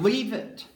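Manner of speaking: "Leave" leaned on firmly, "it" falling away; stress on Leave. Retold or imitated. Preacher recalls how the verse was preached, stress on "Leave". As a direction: put the weight on "Leave". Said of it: "And he emphasized".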